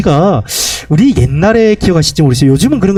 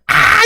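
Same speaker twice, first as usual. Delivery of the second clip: imitated scream. Preacher imitating the possessed woman at night, mock scream. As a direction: imitate her long "Aah" cry at half force. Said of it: "이러면서 막 소리를 질러요".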